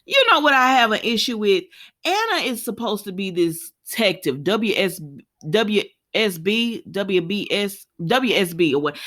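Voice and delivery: mildly exasperated griping; a touch of bitter complaint; a little bitter. Real, not acted. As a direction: gripe about a letdown, emphatically. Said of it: "I'm sounding a little bitter".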